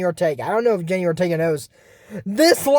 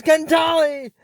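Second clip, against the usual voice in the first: high battle cry; cartoon attack call; shouted spell; 7 semitones higher, slower than usual. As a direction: yell it like casting a spell.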